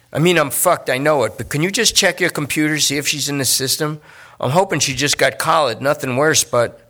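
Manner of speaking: a nervous addict talking his way out; junkie Lester. Acted. Lester begs for a computer check.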